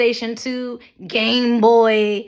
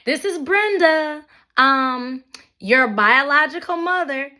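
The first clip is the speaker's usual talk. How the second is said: mocking voicemail; 3 semitones higher than usual. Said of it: "Who the fuck leaves a voicemail".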